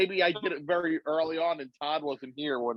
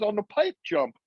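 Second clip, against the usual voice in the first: Dennis McCoy; 8 semitones higher than usual. Retold or imitated. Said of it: "He goes".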